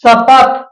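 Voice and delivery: शपथ as an isolated model word with palatal sh. Shown as a demonstration. Teacher reading an example for palatal sa, carefully enunciated sh in शपथ. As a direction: start शपथ with the tongue toward the palate. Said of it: "तालु के संपर्क से बोला जाता है".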